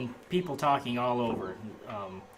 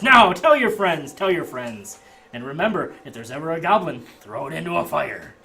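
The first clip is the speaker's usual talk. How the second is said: barker; 3 semitones higher, 9 dB louder than usual. Acted. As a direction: send them off grandly. Barker farewell.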